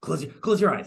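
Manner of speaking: thrilled, high, eager voice bursting with excitement. Retelling a film scene where Beast shows off a library surprise: imitating an excited Beast. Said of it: "'cause he's so excited".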